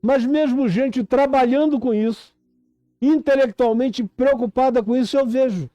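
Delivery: urgent, insistent sermon delivery; impassioned preaching. Real, not acted. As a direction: preach it with rising urgency, stretching the key words.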